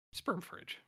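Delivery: whisper. Real, not acted. Gross-out aside about the fridge.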